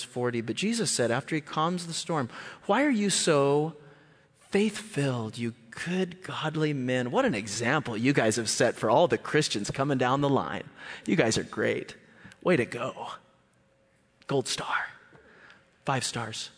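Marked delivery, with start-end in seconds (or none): 2.7-7.1 sarcastically admiring misquote; pause, then hand out the phony compliment; mock praise. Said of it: "No. What does he say?". 7.1-16.5 mock congratulations, doled out in pieces; tongue-in-cheek, dropping into drier short phrases; sarcastic praise. Sarcastic praise of the fearful disciples.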